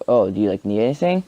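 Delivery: overdone fussy concern, rising up at the end; mock exaggerated friends. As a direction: play the friends as cartoonishly fussy, then drop it. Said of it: "like, they didn't sound like that".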